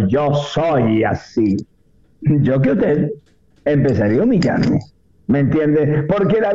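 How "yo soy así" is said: proud stubborn quote. Retold or imitated. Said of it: "alguien está muy orgulloso de ser terco".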